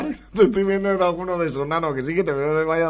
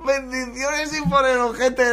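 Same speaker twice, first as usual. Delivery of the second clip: savoring the quote; 7 semitones higher, slower than usual. Retold or imitated. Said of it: "repeats clip after laughing".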